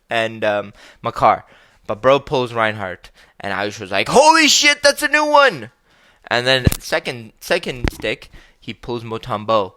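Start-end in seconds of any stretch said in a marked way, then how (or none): 4.1-5.7 put-on high, excited gasp of a kid. Ayush thrilled at the new player card, high excited voice.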